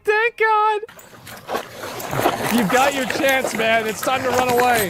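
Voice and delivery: high squeaky voiced dog. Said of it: "He's like".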